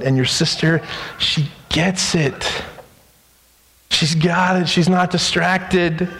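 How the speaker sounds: calm tender correction; gentle scolding. Pretend. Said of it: "his gentle scolding".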